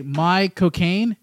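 slow British accent on "My cocaine". Shown as a demonstration. Host shows friends the trick in a British accent. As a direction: drawl "My cocaine" in a British accent so it sounds like Michael Caine. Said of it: "just say it with a British accent".

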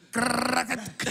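put-on rattling trilled clatter of an old TV; imitated old TV noise. Showing friends how the old TV sounded, imitated clatter. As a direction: imitate a clunky TV dial ratcheting. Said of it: "That went".

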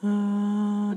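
chest voice demo. Shown as a demonstration. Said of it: "sing in your chest voice".

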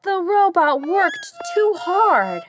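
slow, high mechanical robot; a tired robot droning. A narrator's reading. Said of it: "raised both arms and said".

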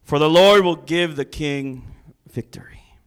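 loud stage whisper of mock blessing; sarcastic whisper. Shown as a demonstration. Micaiah mocking the king, sarcastic stage whisper. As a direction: hiss the promise with sarcasm. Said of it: "This is how I do sarcasm".

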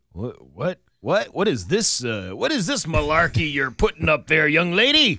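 put-on creaky old codger scolding a young lady; old prospector. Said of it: "And we're like".

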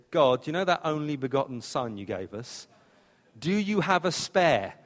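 lightly voiced worried parent asking God; mock parents praying. Parents who lost Jesus ask God, lightly pleading. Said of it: "when they said".

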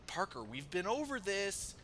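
high, slow all-caps comment; all caps mock. Mocking the friend online in mock all caps. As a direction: read it like shouting in capitals. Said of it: "in all caps of".

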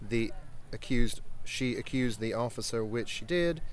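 period British officer reading a letter aloud; British accent, formal letter read to the guests. Acted. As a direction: read it out like a Royal Navy captain in a British accent. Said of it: "Read it in your best British accent".

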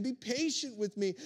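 mild plea, barely lifted; a light hint of begging. Fellow servant pleading on his knees, understated beg. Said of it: "begged him".

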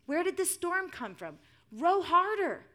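high, urgent shouts; loud dramatised alarm; storybook yelling. A narrator's reading. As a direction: yell orders over a storm. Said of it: "yelled the disciples".

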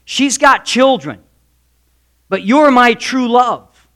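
lightly acted earnest husband, stretching the key words; husband reassuring. Husband assuring his childless wife, emphatic reassurance. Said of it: "he's referring to the fact that".

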